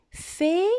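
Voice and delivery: "Faire" split in two, fai… re, first part rising; syllable by syllable. Shown as a demonstration. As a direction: dictate "Faire" as two syllables, final e sounded. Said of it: "Ce mot se compose de deux syllabes". (« Faire » découpé en deux syllabes, fai… re)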